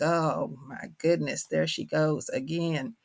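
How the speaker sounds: slow, drawn-out mock dismay; imitating embarrassed children. Children embarrassed by their mother's accent, mock exasperation. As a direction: play the long-suffering kids.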